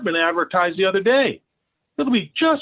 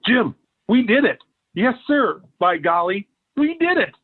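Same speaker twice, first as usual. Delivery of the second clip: gleeful and pleased; triumphant glee; 3 semitones higher than usual. Acted. Neighbour celebrating the plan with Jim, triumphant. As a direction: crow over the win.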